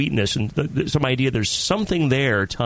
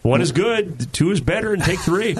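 grandfather quote; 5 semitones higher than usual. Retold or imitated. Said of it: "my grandfather always said about pills".

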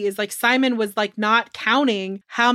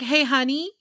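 sudden sweet calm; 5 semitones higher than usual. Retold or imitated. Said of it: "one minute she's like".

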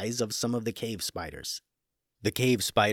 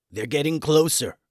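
a touch of panic, higher and louder; panicked; 5 semitones higher, 5 dB louder than usual. Acted. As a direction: warn the others, starting to panic. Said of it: "with some panic in his voice".

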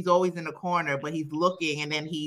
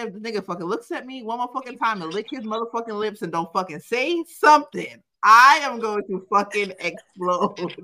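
mounting mock frustration; 3 semitones higher than usual. The speaker retelling her inner rant about the silent guy, building exasperation.

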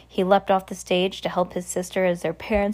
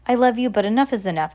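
impatient; 3 semitones higher, faster than usual. Acted. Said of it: "said impatiently".

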